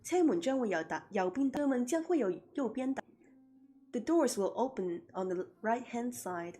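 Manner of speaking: lightly voiced train announcer, quick in places; light mock station announcement in Cantonese and English; MTR announcement voice. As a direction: mimic a Hong Kong metro door announcement. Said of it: "I do the M T R voice".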